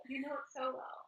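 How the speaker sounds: a playful whisper. Real, not acted. Friend teasing the other over knowing them, whispered. Teasing remark about their relationship.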